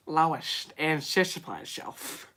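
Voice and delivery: slow, soft, mangled cartoon dad impression; worst Peter Griffin. Streamer mangles the famous line as a bad cartoon dad. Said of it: "the worst Peter Griffin, voice".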